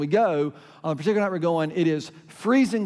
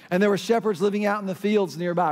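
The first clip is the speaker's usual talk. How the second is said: scripture reading. Real, not acted. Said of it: "here's how it reads".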